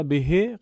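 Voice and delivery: «به» as behe with short e endings; wrong short reading. Shown as a demonstration. Teacher pointing out the mistake, short vowel. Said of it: "غلطه".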